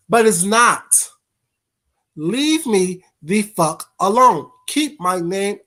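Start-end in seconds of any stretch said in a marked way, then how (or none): 0.1-1.1 whispering. Real, not acted. Sudden hush mid-rant.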